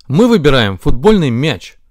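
loud, emphatic choice; loud, droning insistence. Acted. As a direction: announce your pick over the others. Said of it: "загудели ноги". (громко, настойчиво)

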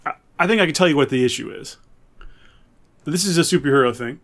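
normal talking voice

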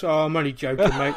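loud Cockney shopkeeper's voice; thick London Cockney. Acted. Shopkeeper owning up to the tourist, thick Cockney. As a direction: lay on a broad London Cockney accent. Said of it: "in the thickest London Cockney accent".

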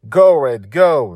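high, loud urging on; full-voiced child's cheer; cheering yell. A narrator's reading. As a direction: yell encouragement mid-battle. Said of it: "Dragon Little yelled".

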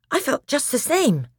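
high, breathless, shaken speech. Acted. Edmund telling the others he felt it, breathless. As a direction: speak as if winded by fright. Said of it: "said Edmund in a breathless voice".

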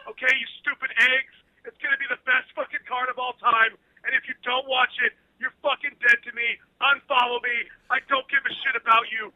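a hint of a brash UFC boss hyping the card, swearing at fans; Dana White rant. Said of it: "in your Dana White impersonation".

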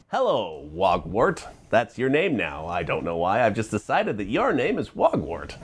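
smooth radio DJ voice; eighties DJ voice. Shown as a demonstration. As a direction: talk like an eighties radio host. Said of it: "talks like this all the time".

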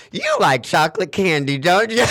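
cheeky lyric line, rising at the end; quoting the song line. Retold or imitated. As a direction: tease it like the hook. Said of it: "I love that line".

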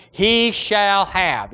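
slow, drawn-out He shall have, He hit hardest; emphatic stress. Shown as a demonstration. Preacher to congregation, stressing He in He shall have, slowly. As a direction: lean on He in He shall have, each word slow. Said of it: "That's the strongest Greek emphatic word".

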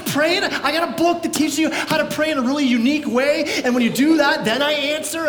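mock sarcastic Jesus. Mock Jesus mocking prayer.

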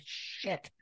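a sheepish whispered curse; embarrassed whisper. Retold or imitated. Caught standing in the theater, a sheepish whisper. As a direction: breathe it out under your breath, caught out. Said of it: "I'm like".

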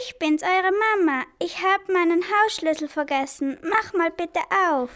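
high fake mother voice. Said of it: "nicht so eine helle Stimme".

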